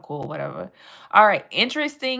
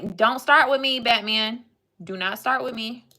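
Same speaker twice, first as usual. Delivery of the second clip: 1 mock scolding; 3 semitones higher than usual. Real, not acted. Scolding a chatter named Batman.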